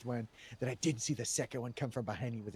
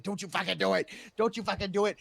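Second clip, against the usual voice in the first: retold yell; 7 semitones higher, 5 dB louder than usual. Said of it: "And I said".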